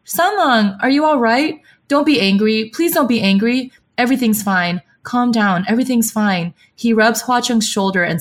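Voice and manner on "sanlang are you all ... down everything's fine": higher, urgent pleading to calm him; rushing to soothe an angry companion, higher and urgent; anxious pleading. Retold or imitated. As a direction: beg him to calm down, a touch worried. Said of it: "rushes forward and cries".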